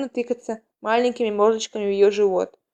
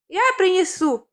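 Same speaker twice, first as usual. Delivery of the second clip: higher-pitched eager blurt; hurried blurt; 8 semitones higher than usual. A narrator's reading. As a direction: blurt out a quick offer to help. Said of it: "выпалила кричишница". (выпалить с готовностью)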